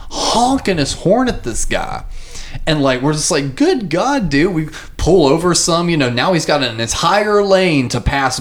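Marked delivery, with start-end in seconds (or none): 3.5-4.5 higher, disbelieving "Good God, dude"; exasperated. Retold or imitated. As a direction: roll your eyes at the tailgater. Exasperated at tailgater.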